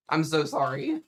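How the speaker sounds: sorry through a laugh, mouth full; laughing apology. Real, not acted. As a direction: laugh it out while chewing.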